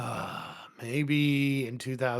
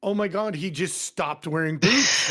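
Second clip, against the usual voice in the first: mildly hammed-up scandalised gossip, higher and louder; mock shock; 4 semitones higher, 5 dB louder than usual. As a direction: imitate aghast coworkers, voice lifted. Mimicking colleagues' shocked gossip.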